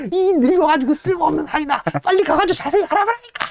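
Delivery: very high, shrill screaming rage; hammed-up furious master throttling servant; furious tantrum. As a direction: scream at him while strangling. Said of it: "막 지랄지랄 떱니다".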